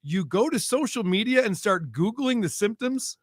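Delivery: incredulous. Real, not acted. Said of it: "quoting the ad in disbelief".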